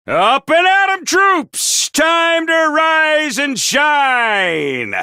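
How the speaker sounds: cheery drill-sergeant wake-up; rousing wake-up call. Acted. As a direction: drag the troops out of bed. Morning wake-up call to troops.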